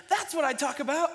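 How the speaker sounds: put-on high, loud little-kid exclamation; imitating excited toddler daughter. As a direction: mimic a small child finally understood. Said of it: "if you know my daughter, she goes".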